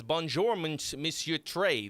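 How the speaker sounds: lightly put-on French accent; a hint of mock French. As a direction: greet in a playful French accent. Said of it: "That's a good French accent".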